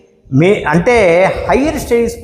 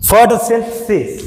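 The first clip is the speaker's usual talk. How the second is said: ఫోటోసింథసిస్ slow, British style with స; British pronunciation; 3 semitones higher, much slower than usual. Shown as a demonstration. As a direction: model British ఫోటోసింథసిస్ carefully. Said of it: "British వాళ్ళు అట్లా పలుకుతారు". (British ఉచ్చారణలో నెమ్మదిగా ఫోటోసింథసిస్)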